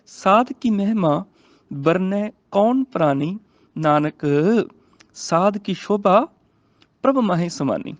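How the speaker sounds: slow, measured verse reading; scripture recitation. Shown as a demonstration. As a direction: recite slowly, phrase by phrase. (ਹੌਲੀ, ਠਹਿਰਾਅ ਨਾਲ ਗੁਰਬਾਣੀ ਪਾਠ)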